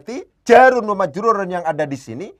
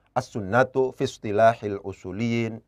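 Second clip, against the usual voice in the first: slow dictation; 6 semitones lower, 5 dB quieter than usual. Shown as a demonstration. Teacher repeats the dictated phrase.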